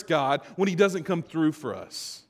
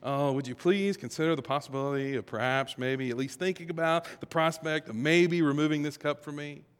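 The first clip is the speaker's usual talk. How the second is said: overly tentative, hedging mock plea; mock polite request. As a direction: imitate someone asking far too politely. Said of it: "this isn't a polite request like".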